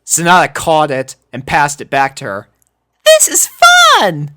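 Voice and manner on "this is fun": very high, loud and slow delight; giggly. A narrator's reading. Sonata playing catch, very high loud delighted voice. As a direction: gush it happily, very high. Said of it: "she giggled".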